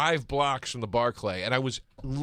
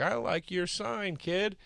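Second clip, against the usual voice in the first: slow, higher-pitched singer's voice; a singer; 5 semitones higher, 5 dB quieter, slower than usual. Retold or imitated. Singer to a kid in the crowd, lightly imitated. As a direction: lightly imitate a star addressing a fan. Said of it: "the singer sees the sign".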